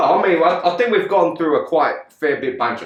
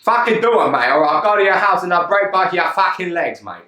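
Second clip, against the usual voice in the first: Get Carter hard man. Acted. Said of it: "He hasn't been Get Carter".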